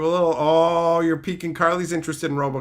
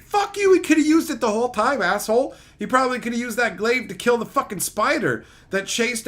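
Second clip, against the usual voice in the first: exasperated rant; 5 semitones higher than usual. Real, not acted. Ranting at movie character.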